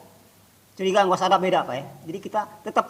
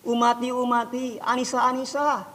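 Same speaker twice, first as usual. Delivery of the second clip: pleading prayer; 4 semitones higher than usual. Retold or imitated. Prophet's pleading prayer for his people.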